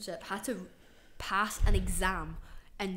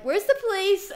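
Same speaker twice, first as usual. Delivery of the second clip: mock loud demand; 12 semitones higher, 9 dB louder than usual. Retold demand, loud and high.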